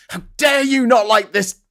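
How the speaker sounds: high, loud mock indignation; hammed-up offended fan; imitating an outraged Apple fan; mock outrage. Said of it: "They're like".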